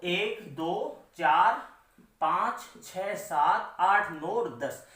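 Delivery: measured count with gaps between numbers; slow counting. Shown as a demonstration. Teacher tallying syllables in the line, slow deliberate count. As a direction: count them off slowly, one at a time.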